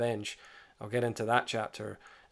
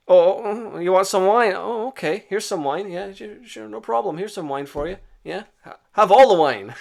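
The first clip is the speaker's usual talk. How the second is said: higher, sugary fake-eager host voice; mock-obliging prior; 9 semitones higher, 10 dB louder than usual. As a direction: play it falsely helpful while plotting. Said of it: "prior feigning obliging hospitality".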